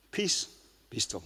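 soft, unhurried command, almost hushed; peaceful hushed calm; calm and quiet. Retold or imitated. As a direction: say it gently, with total quiet confidence. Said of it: "I don't think Jesus was much of a shouter".

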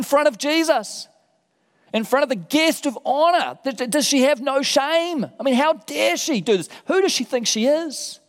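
rising outrage, how dare she; affronted host fuming at the woman; indignant outrage. Acted. Simon's indignant thoughts voiced.

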